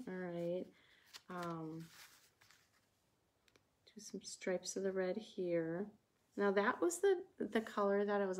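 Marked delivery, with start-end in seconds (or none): 0.1-5.9 unvoiced whisper while painting; hushed aside over the brush. Real, not acted. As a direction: breathe the words without voice.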